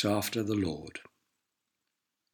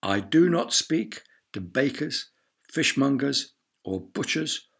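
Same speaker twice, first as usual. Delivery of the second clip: snooty lord; 3 semitones higher than usual. Acted. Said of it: "the lord would just look at them and say".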